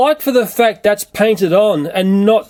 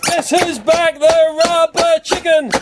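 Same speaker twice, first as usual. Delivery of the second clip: higher, slower squeaky toy voice; rubber chicken voice; 7 semitones higher, slower than usual. Pretend. Toy chicken voice for the viewers. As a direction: play the rubber chicken character.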